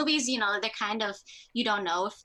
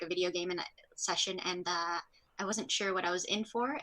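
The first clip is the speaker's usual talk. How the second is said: ordinary talk, nothing marked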